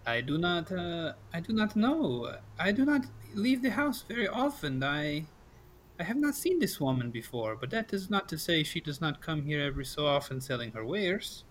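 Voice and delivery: lightly voiced, careful Irina; measured delivery with rising, falling swings. Game master answers travelers as Irina, lightly in character.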